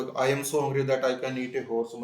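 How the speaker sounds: slow and loud, word by word; emphatic slow reading; slow dictation. Shown as a demonstration. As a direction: dictate it to the class. Teacher reads example slowly.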